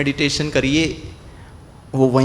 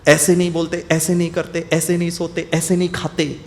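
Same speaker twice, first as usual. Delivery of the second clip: mother scolding; 2 semitones higher than usual. Retold or imitated. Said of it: "बोला".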